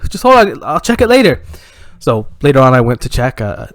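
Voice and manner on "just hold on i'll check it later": higher, raised placating voice; dad fobbing off. Acted. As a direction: put the kid off for now. Dad putting off frantic daughter.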